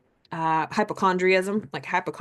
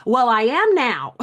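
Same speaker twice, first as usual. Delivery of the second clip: louder, slow annoyed retort; mock irritated snap; 5 semitones higher, 8 dB louder, slower than usual. Fed up after the third person asks, mock irritated snap. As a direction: finally lose patience, playfully. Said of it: "Then the third person".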